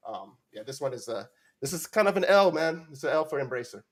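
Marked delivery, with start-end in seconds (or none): 1.6-3.8 excited. Real, not acted. Excited verdict on Embracer.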